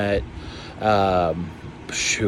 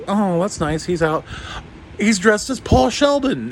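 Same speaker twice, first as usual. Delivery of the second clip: excited gushing; 9 semitones higher than usual. Retold or imitated. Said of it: "I was like".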